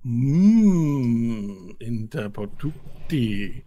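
drawn-out pondering hum into slow alien words; slow, weighty ancient tongue; Tabacho speaking Draconic. Acted. Tabacho answering the party's greeting, slow Draconic pronouncement.

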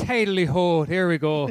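lightly sung-out Irish catchphrase; mock Irish accent. Shown as a demonstration. Podcaster getting into an Irish headspace, light mock Irish. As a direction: slip lightly into stage Irish. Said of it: "get into an Irish headspace".

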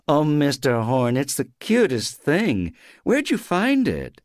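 high, slow, gushing lady next door; gushing neighbour. Acted. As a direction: coo over the cute thing. Buurvrouw bij de tuin.

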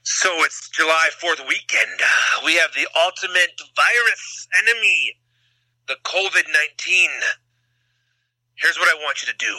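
light wrestling promo hype; hammed-up pro wrestler pep talk; Macho Man. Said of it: "Can you cut a wrestling promo real quick".

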